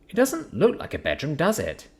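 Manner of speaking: Sapphire's voice. Acted.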